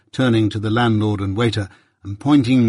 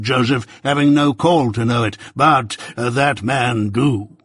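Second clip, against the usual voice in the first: lightly voiced pompous old busybody; a hint of a self-important uncle holding forth; Pumblechook, pompous; 3 semitones higher, 3 dB louder than usual. Pumblechook lecturing young Pip at breakfast, lightly pompous voice.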